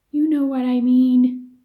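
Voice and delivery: put-on loud, fed-up boy; exasperated kid. Tom fed up with Joe's dodging, loud exasperated kid. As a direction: push back impatiently.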